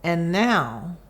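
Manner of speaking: gentle, measured storybook narration; story reading. A narrator's reading. Reading a picture book about moving to children, calm storytelling.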